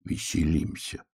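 soft, slow, near-voiceless reply; a bear calmly not stopping to play; hushed answer; quietly. A narrator's reading. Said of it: "тихо сказал медвежонок".

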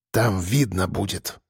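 cold drawl; through teeth. A narrator's reading. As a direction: say it coldly through clenched teeth. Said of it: "процедил я".

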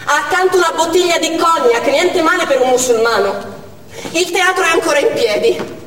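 soldato che grida via radio, teso e alto; grido alla radio. Retold or imitated. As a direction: annuncia forte la morte del capo. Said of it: "E dalla cuffia un grido". (un soldato grida nella cuffia la notizia, concitato)

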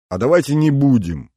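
eager first outcry; exclaiming. Acted. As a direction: call it out to friends. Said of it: "воскликнула Маша".

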